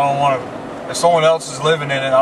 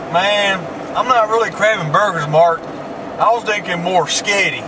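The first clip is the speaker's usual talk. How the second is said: lightly voiced hick, slowing at end; mock the picky country friend; 3 semitones higher than usual. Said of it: "this dude was like".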